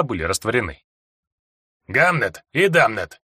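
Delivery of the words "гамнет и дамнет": slow grumbling dwarf; gruff gravelly dwarf voice. Acted. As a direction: grumble the names slowly. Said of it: "проворчал гном".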